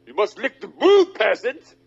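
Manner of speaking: high, slow, sneering cop; mock police voice. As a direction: ham up a pompous officer barking at peasants. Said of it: "The police said".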